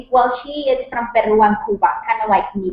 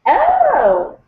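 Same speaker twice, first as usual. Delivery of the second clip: high, delighted gasp of surprise; a sudden pleased oh; surprised oh; 3 dB louder than usual. Real, not acted. Reacting to seeing plaque.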